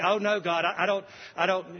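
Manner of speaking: high, fast, falsely humble protest; mock pious refusal. King Ahaz piously refusing God's sign, mock humble. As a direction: ham up a holy-sounding no. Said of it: "it sounds really pious".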